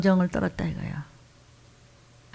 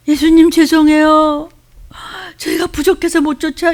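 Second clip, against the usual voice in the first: humble apology; 7 semitones higher, 5 dB louder than usual. Retold or imitated. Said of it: "이래야 되는데".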